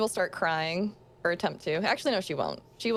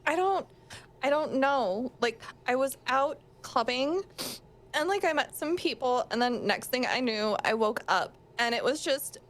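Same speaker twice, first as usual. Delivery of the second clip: put-on ditzy upset girl; 3 semitones higher than usual. Clubber girl explains herself.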